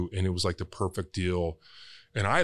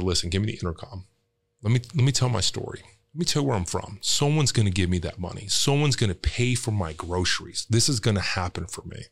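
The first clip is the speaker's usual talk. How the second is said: fast, urgent plea to the cashier; desperate pleading. Retold or imitated. Retelling how he begged the Walmart cashier, urgent and fast. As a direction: rush it out like a desperate man begging.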